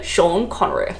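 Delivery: slushy s, light impression; Sean Connery. Vlogger joking she sounds like an actor, light impression. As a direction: lightly imitate the film star's sh. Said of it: "That's what I sound like".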